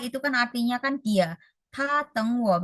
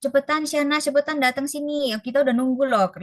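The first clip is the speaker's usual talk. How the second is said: higher, hurrying call to a late friend; impatient friend; 5 semitones higher than usual. Retold or imitated. Friend calling Shana to hurry, higher impatient call. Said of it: "teman kalian nyuruh kalian cepet-cepet".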